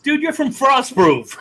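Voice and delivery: high, laughing shout of a tease. Real, not acted. Host ribbing guest about his hometown, laughing shout. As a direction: yell it out through a laugh.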